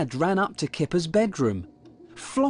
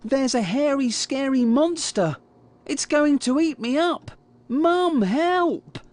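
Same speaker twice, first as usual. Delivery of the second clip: high-pitched cry of pretend alarm; yelling; 10 semitones higher than usual. A narrator's reading. Kipper pretending a monster will eat him, yelling. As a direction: call out high for help, putting on a scare. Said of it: "yelled Kipper".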